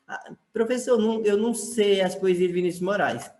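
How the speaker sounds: lightly voiced pupil, pitched a little up; protesting pupil. Pupil tells the teacher they don't know the poems, lightly protesting. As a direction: make a pupil's mild objection.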